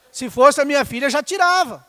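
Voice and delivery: preaching emphasis. Real, not acted. Preacher raising voice on a point.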